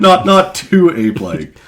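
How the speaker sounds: high, loud laughing echo. Acted. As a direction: laugh through the tease.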